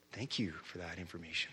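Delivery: low, quiet deadpan thanks; dry sarcasm. Retold or imitated. Pastor answering the possessed man, soft deadpan sarcasm. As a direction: murmur it with dry irony.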